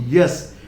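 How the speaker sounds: yes with a full y and e; wrong ending. Shown as a demonstration. Teacher rejects a common error, wrong pronunciation. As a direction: say yes as a clear YES. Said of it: "It is not".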